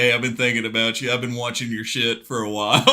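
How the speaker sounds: lightly acted come-on, pitched low; low-key pretend flirting; mock flirty message. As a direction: imitate a coy admirer, dropping your voice. Imagined flirty message from a star.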